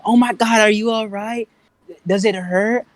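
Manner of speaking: high-pitched mock fussing; imitating concerned girls. Girls checking on a boy after a fight, mock concern.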